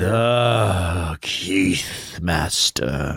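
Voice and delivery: classical stage acting. Dramatic donor name reading.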